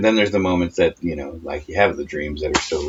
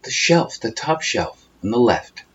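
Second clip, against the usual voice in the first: much higher, drifting sleep-talk voice; sleep talker; 12 semitones higher than usual. Retold or imitated. Imitating wife's sleep talk about a shelf, much higher. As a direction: float it up high like a dreamer. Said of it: "you started talking about".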